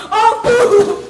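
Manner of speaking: wailing shout. Acted. Wailing at uncle.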